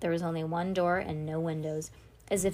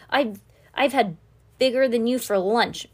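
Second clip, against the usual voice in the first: defiant; 4 semitones higher, 9 dB louder than usual. Acted. Homunculus defies captors.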